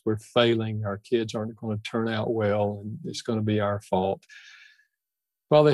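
measured, unhurried prayer with long pauses; spoken prayer. Acted. Guest prays for burdened parents listening, measured prayer. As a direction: pray simply, phrase by phrase.

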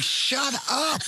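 high, exasperated retort, played for laughs; mock exasperation. Coach turning round to his wife, mock exasperation. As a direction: act out being fed up, pitch jumping up.

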